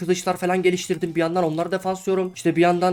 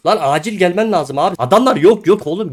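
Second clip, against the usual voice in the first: urgent call; 3 semitones higher, 6 dB louder than usual. Real, not acted. Calling teammate urgently.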